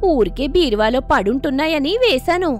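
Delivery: a touch of a neighbour rubbing it in; mild taunting boast. Acted. Sujata boasts of jewels to hurt Seetalu, smug. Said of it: "సీతాలు నొచ్చుకునే విధంగా మాట్లాడుతుంది".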